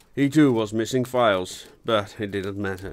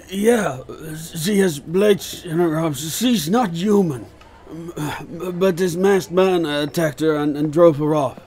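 urgent; 7 semitones higher, 5 dB louder than usual. Acted. Wounded inspector urgently explains.

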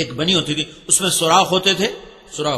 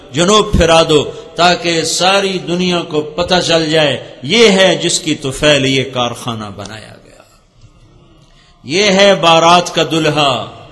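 preaching; 2 semitones lower, 4 dB louder than usual. Acted. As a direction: proclaim it like a pulpit preacher. Preaching the heavenly proclamation. (زور دار خطیبانہ انداز)

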